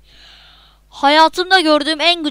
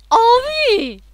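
mock crying; 10 semitones higher, 4 dB louder than usual. Real, not acted. Gamer dies again, cries out.

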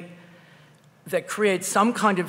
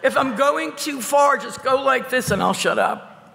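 missing front teeth; 6 semitones higher, 3 dB louder than usual. Real, not acted. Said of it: "My front tooth fell out".

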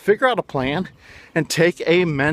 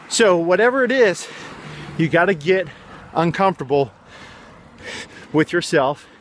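panting after a climb uphill; out of breath from the hill. Real, not acted. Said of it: "sorry, I just climbed a hill".

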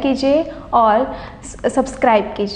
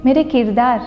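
poem recitation. Acted. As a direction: recite each line as if asking the world. Recites her poem over music.

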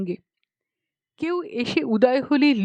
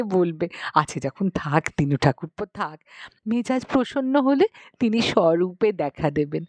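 pleading aunt. Acted. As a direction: beg him like a devout aunt at his feet. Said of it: "লুটিয়ে পড়ল".

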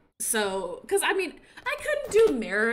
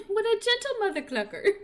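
high, laughing praise; laughing coo; 10 semitones higher than usual. Real, not acted. Laughing at her dressed chicken, high and giggly.

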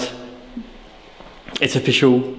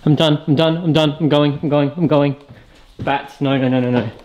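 flee the bats babbling; real panic; panicked retreat; 3 semitones higher than usual. Real, not acted. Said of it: "I'm getting the hell out of here".

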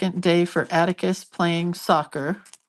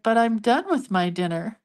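put-on high little-kid protest; lightly voiced young grandson; imitated grandson; 5 semitones higher than usual. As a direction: imitate a small child objecting, pitched up. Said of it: "And he's like".

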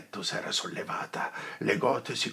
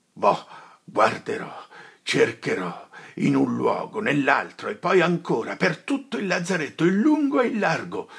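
climbing higher and louder with every phrase; higher and louder to a near shout; rising agitation; 6 semitones higher, 8 dB louder than usual. Acted. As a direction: build from firm to frantic. Renzo vows to search everywhere.

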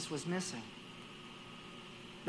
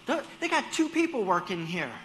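higher, louder exasperated complaint; annoyed grumbling; 7 semitones higher, 7 dB louder than usual. Retold or imitated. In the checkout line behind coupons, exasperated complaint. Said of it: "And you're like".

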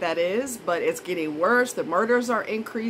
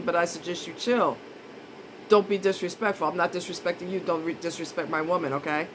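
calm warning; 3 semitones lower, 3 dB quieter than usual. Retold or imitated. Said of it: "You could just say".

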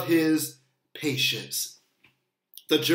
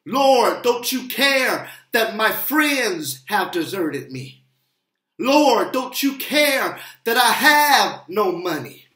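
pleading prayer, building. Acted. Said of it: "We've asked".

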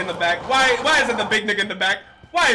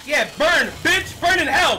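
triumphant yell; 5 semitones higher, slower than usual. Real, not acted. Burning the spider in triumph.

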